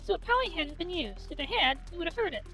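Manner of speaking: calm, even reading of the novel; story narration. Acted. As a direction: read the narration and lines evenly. Reads visual novel narration aloud.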